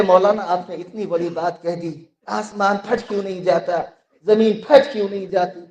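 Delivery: quiet imitation, "फट" pronounced with fussy care; mock over-articulated Urdu. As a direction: lightly mimic an opponent stressing the throaty sounds in "फट". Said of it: "Urdu में मखरज बहुत निकालते हैं". (उर्दू के मखरज निकालने की हल्की नक़ल)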